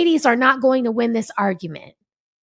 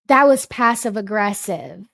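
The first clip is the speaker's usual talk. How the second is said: deliberate, measured rebuke; pointedly slow; 3 semitones lower than usual. Real, not acted. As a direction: land each word slowly as a reproach. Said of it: "Let me say it slowly".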